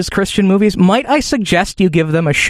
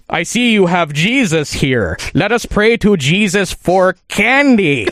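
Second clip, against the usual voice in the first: mock villain; slower than usual. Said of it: "And he's going".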